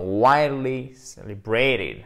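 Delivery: slow "Widely celebrated", stress on WI; stressed model. Shown as a demonstration. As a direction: lean on the first syllable of "Widely". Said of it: "l'accent tonique est là".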